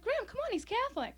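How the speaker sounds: high-pitched mock whine to grandma; retold pleading. Granddaughter defending her date to grandma, acted pleading.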